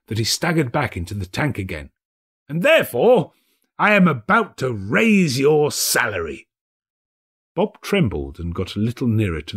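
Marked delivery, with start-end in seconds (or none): 2.5-6.5 high, loud building to a happy surprise; joyful reveal. A narrator's reading. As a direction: drop the act with delight.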